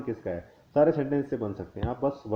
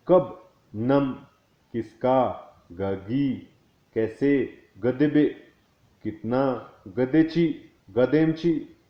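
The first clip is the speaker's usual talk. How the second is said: slow careful review. Shown as a demonstration. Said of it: "एक बार ध्यान से दोबारा सुनिएगा".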